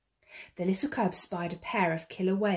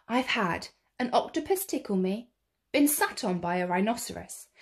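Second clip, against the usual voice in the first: angry scolding. Acted. Furious TV man scolding the cub, mildly angry. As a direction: tell him off crossly.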